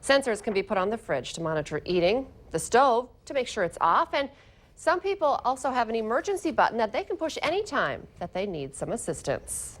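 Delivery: measured anchor delivery; crisp scripted news delivery; news read. Acted. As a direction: read it as a local morning news story. Anchor reads news copy.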